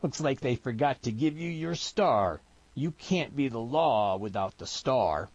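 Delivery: a hint of a jeering backwoods tough; lightly voiced mocking mountain man. Mountain man taunting the storekeeper, lightly mocking. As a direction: needle him lightly, backwoods style.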